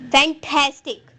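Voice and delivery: फैंटास्टिक with a firm stress on टास; stress on middle syllable. Shown as a demonstration. Teacher showing where the stress went, middle-syllable stress on फैंटास्टिक. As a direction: lean on टास in फैंटास्टिक, leaving the outer syllables unstressed. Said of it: "ठेस के ऊपर जो है वो stress दिया".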